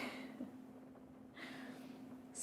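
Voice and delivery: quiet, airy little laugh; soft chuckle. Real, not acted. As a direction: chuckle softly to yourself. Delight at making nachos immediately.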